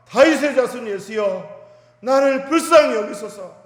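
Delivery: a beggar crying out to be heard over the crowd; desperate cry. Retold or imitated. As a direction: call out with all your strength so he hears. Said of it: "힘껏 소리를 질렀습니다".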